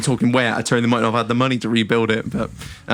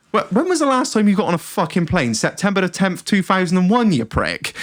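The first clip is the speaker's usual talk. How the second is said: raised-pitch mock outrage; exasperated retort; 5 semitones higher than usual. Fed-up traveller to clueless passenger, in mock exasperation. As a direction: tell him off in comic disbelief.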